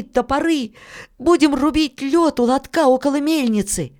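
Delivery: put-on high-pitched boy's voice throughout; high, hopeful child explaining step by step; Filka, eager boy.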